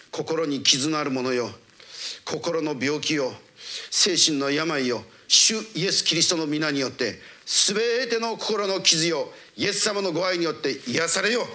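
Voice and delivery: slow, drawn-out commanding prayer; healing prayer. Real, not acted. Preacher addressing wounded hearts in prayer, solemn command. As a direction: call out to each wound, stretching the words.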